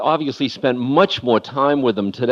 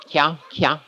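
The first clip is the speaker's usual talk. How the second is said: coaxing guru; 5 semitones higher, 4 dB louder than usual. Retold or imitated. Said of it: "guru coaxing an answer".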